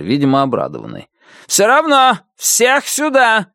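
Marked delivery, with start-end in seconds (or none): 1.5-3.5 high, slow screaming officer; shrieking furious major. A narrator's reading. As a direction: shriek the accusations down the line. Major orders everyone out.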